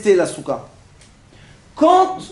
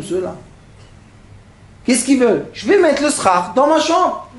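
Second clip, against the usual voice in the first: a grumbling, put-out homeowner, rising to an indignant peak; grumbling neighbour; 4 semitones higher than usual. Retold or imitated. Rabbi voicing a man who refuses to leave his room, grumbling.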